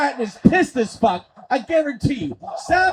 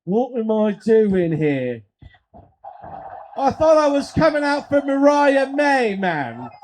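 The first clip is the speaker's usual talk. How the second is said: botched celebrity accent attempt; Toni Storm; slower than usual. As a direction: try an accent and miss it. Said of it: "And Toni Storm is like".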